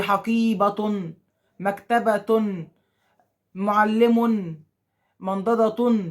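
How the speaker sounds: each example stretched out very slowly; slow dictation. Shown as a demonstration. Teacher to pupils, stretching each nunation example slowly. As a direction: let every word hang so pupils hear the ending. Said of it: "تنوين".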